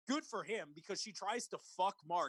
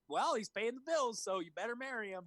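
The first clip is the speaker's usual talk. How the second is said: mock mom; 6 semitones higher than usual. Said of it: "she's like".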